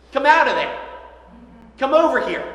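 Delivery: calling the name out loud and high; loud shout. Retold or imitated. Jesus calling into the tomb, a loud high shout. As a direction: shout it across the graveyard. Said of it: "he shouted with a loud voice".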